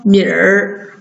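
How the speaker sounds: 米儿 as one r-coloured syllable; erhua demo. Shown as a demonstration. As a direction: model 米儿, i gliding into r. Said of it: "直接加儿一起读".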